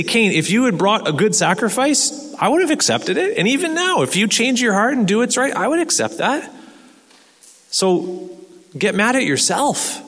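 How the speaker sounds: voice of God. Acted. Preacher voices God speaking to Cain.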